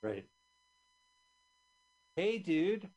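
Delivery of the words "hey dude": high, loud cartoon kid voice; goofy Bart voice. Friend riffing on the look, high, loud cartoon kid voice.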